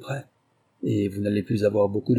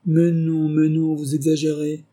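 higher, louder smiling protest; 6 semitones higher, 4 dB louder than usual. A narrator's reading. Holmes soothes his cursing captive, smiling and lightly teasing. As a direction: brush it off with an amused smile.

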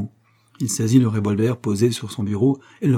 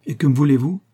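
cold; 4 semitones higher, 4 dB louder than usual. Acted. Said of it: "fit froidement Molescott".

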